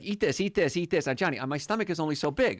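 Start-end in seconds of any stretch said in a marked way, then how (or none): 0.0-1.0 pushy friend. Retold or imitated. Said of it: "my buddy Johnny is like".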